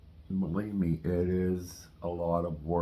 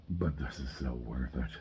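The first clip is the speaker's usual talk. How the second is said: talking with a mouthful; words round a bite of food; mouth full; 3 semitones lower, 6 dB quieter than usual. Real, not acted. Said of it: "I'm talking with my mouth full right now".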